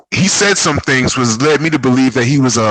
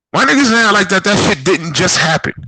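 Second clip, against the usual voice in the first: exasperated; 8 semitones higher than usual. Real, not acted. Ranting about fight.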